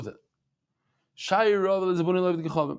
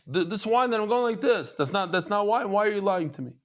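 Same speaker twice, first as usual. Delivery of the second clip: higher, half-hearted indignant complaint; mock angry accusation; 5 semitones higher than usual. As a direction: play the customer accusing him of lying, raised pitch. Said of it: "The Jew got so mad".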